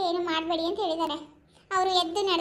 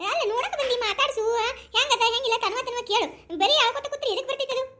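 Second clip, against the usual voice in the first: raised-pitch nagging; exasperated scolding; 4 semitones higher than usual. Acted. Relative tells crying mother to talk instead, scolding. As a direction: nag the weeper to stop and talk.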